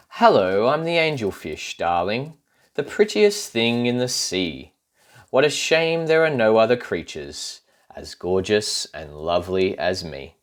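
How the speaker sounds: preening, posh-sounding fish voice; vain angelfish. Acted. Angelfish admiring herself to the children, lightly voiced. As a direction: coo it like a vain beauty.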